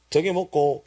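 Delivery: short Gyeongsang dialect question. Shown as a demonstration. Preacher teaches the four-syllable version, in Gyeongsang dialect. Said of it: "경상도 사투리로 하면 네 글자가 나와요".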